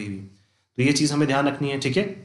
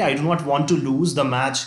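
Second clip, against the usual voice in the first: slow dictation; much slower than usual. Shown as a demonstration. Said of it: "dictating an example sentence slowly".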